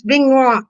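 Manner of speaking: "beignois" with a wah ending; mispronounced. Real, not acted. Streamer groping for the French name of the donuts, mispronounced. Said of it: "can't remember to say beignet".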